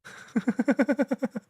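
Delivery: high burst of laughter. Real, not acted. Streamer laughing at the robot's confession, high laugh. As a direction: crack up at the robot's line.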